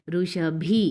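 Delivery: ఋషభి with a forceful, aspirated final bhi; firm aspirated bh. Shown as a demonstration. Teacher models the word for children, strong bh. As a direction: push air on the bhi ending of ఋషభి. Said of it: "భి అని కొంచెం పలకాలి గట్టిగా".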